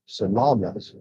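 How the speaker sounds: Salamat said sa-LA-mat; stress on LA. Shown as a demonstration. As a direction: lean on the middle syllable of Salamat. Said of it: "the la would have the accent".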